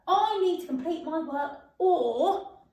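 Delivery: slow, with a hint of a laugh; slow model sentence. Shown as a demonstration. Teacher modelling the extended sentence for pupils. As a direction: read it out slowly with a smile. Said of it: "modelling the extended sentence".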